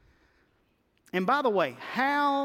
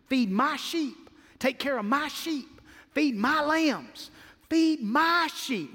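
Jesus; 6 semitones higher, slower than usual. Retold or imitated. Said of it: "He said".

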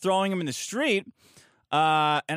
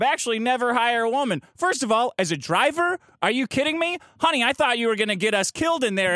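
higher-pitched mock address to the audience; lightly played showman rant; 4 semitones higher than usual. Guest playing huge asshole for the camera, showy mock rant. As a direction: launch into an obnoxious on-camera persona. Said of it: "So I instantly just turn into".

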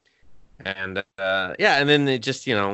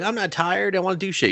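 mock hyper Sonic; 8 semitones higher than usual. Sonic voiced as hyper kid.

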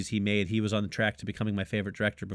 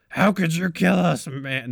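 slow, louder, higher attempt at Seth Rogen; bad Seth Rogen impression; 6 semitones higher, 6 dB louder, slower than usual. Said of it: "that's like a bad Seth Rogen".

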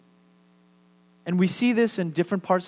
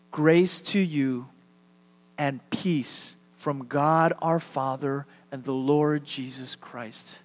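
slow recitation; 3 semitones lower, slower than usual. Shown as a demonstration. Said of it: "could we all say this together".

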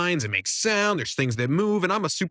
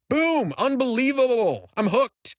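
excited win; 9 semitones higher, slower than usual. Retold or imitated. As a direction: shout it like you just hit blackjack. First hand blackjack win.

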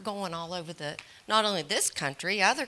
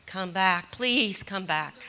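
"come back" louder, "please come back" drawn out slowly; mock pleading; 4 dB louder, slower than usual. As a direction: beg them half-jokingly, slowing on "please". Begging grown kids to return.

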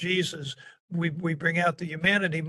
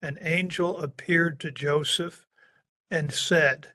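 monotone reading. Shown as a demonstration. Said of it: "we tend to read it in a monotone".

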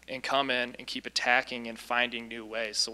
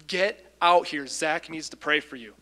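loud, higher-pitched retold command; retold urgent order; 3 semitones higher, 5 dB louder, slower than usual. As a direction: call it out like ordering someone from a shower. Retold door-beating, ordering friend out.

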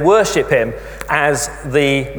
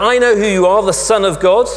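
raised, higher mock shout of the demons; 4 semitones higher, 4 dB louder than usual. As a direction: call it out like a possessed crowd. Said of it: "the demons will shout out".

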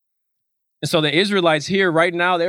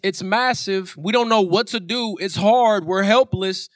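higher-pitched, pleading questions; mildly acted panic; 4 semitones higher than usual. Disciples waking Jesus on the sinking boat, frightened pleading. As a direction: plead with the teacher as the storm takes over. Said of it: "they were terrified".

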